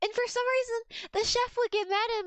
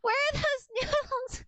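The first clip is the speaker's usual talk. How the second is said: retold scream; 5 semitones higher than usual. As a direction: imitate a frantic call into the kitchen, breaking into laughter. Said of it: "I screamed into the kitchen".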